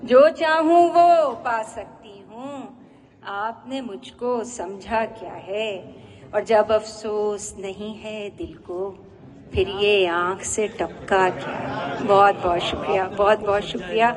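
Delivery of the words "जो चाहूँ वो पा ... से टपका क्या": measured ghazal recital with drawn-out line endings; poetry recitation. Acted. Woman poet presenting her ghazal to an appreciative audience, poetry recitation. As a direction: recite each couplet line to an audience, pausing after it.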